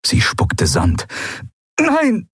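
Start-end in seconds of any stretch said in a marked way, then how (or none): 1.8-2.3 high, drawn protest; desperate cry. A narrator's reading. Andriel sees the ship door closing, crying out. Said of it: "rief sie wieder".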